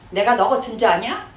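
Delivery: mildly indignant rhetorical challenge; a touch of anger, rising at the end; mock angry retort. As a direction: imitate someone snapping back in a quarrel. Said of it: "우리 화나면".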